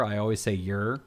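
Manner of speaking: "your" with a short r-coloured vowel, rhyming with "fur"; casual "yer" for "your"; reduced vowel in your. Shown as a demonstration. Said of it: "I don't say your".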